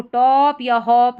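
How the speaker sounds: टॉप and हॉप with a drawn-out, rounded vowel; mispronounced टॉप, हॉप with a long "aw"; wrong long vowel. Shown as a demonstration. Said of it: "नहीं बोलेंगे".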